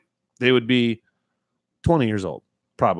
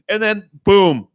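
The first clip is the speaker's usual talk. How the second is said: ordinary talk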